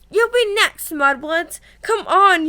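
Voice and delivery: high sneering taunt; Malfoy sneer. Retold or imitated. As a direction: jeer it like a bully. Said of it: "Ron quoting Malfoy again".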